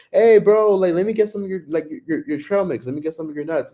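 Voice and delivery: play-acted playful tone. Retelling how a juice seller asked for some trail mix: imitating a playful request. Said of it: "he playfully was like".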